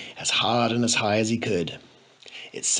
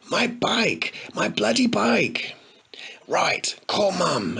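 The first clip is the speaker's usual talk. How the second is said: despairing whisper; 8 semitones higher, slower than usual. A narrator's reading.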